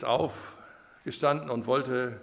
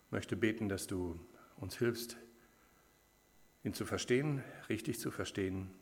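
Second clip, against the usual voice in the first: quiet prayer, sinking softer toward the amen; 4 dB quieter than usual. Real, not acted. Preacher thanks the Lord for the text, quiet prayer. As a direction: pray simply, letting the voice drop away at the end.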